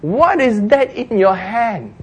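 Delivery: high, slow, drawn-out question; measured divine questioning; the Lord. Acted. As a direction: ask it pointedly, stretching the words. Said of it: "the Lord says".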